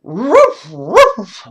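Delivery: loud, high joyful barks; loud happy dog barks; booming woof. Acted. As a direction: bark with joy. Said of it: "boomed Butch".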